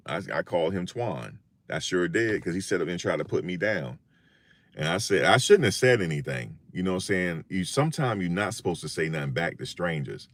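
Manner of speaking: ordinary talk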